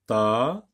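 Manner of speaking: "Tabouret" as ta, bou, ret with long gaps; split into syllables. Shown as a demonstration. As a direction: hold and separate each syllable of "Tabouret". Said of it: "dans la deuxième syllabe".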